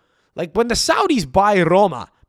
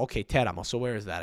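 usual speaking voice

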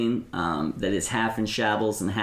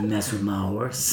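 Geck's threat. Acted. GM voices Geck.

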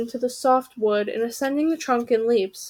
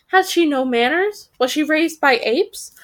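snooty raven; 4 semitones higher than usual. Acted. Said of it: "said the third".

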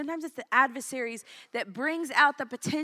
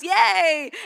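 cheering; 7 semitones higher, 13 dB louder than usual. Real, not acted. Cheering a promised blessing.

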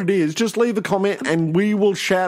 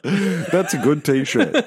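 laughing; much slower than usual. Real, not acted. Laughing at joke.

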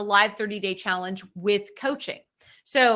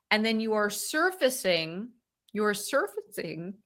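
talking through hiccups; speech broken by hiccups. Real, not acted. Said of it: "sorry, I've got the hiccups now".

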